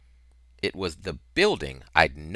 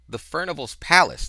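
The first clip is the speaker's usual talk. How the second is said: stranger's reply; 10 semitones higher, 7 dB louder than usual. A narrator's reading. Stranger answers the boy.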